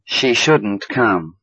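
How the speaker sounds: very slow, shouldn't leaned on; stress on shouldn't. Shown as a demonstration. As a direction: hit the word shouldn't. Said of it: "but we stress it in a negative sentence".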